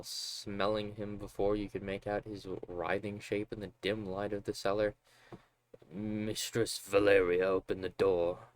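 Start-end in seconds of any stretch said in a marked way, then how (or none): 5.9-8.5 put-on drunk father voice.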